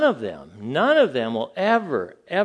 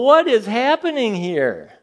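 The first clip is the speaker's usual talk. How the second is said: shocked; 8 semitones higher, 7 dB louder than usual. Retold or imitated. Retold shocked reaction, loud.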